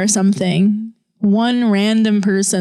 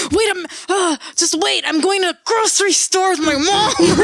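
higher, hurried mock brush-off; mimicking a flustered friend; 7 semitones higher than usual. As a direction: pitch it up and sound distracted.

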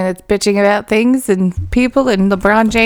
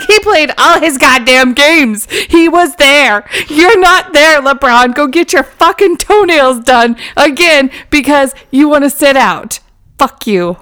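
mock rant; 4 semitones higher, 4 dB louder than usual. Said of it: "I was mad".

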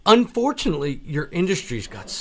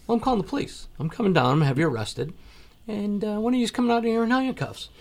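retold threat; 9 semitones higher, faster than usual. Retold threat to call police.

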